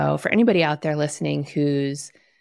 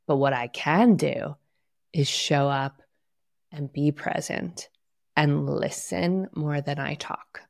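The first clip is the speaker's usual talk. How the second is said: calm self-talk; 2 semitones lower than usual. Shown as a demonstration. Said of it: "say to yourself".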